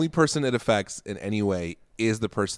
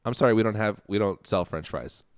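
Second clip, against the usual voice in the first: polite; 3 semitones lower, 4 dB quieter than usual. Retold or imitated. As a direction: say it kindly, easing off. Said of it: "all she had to say is".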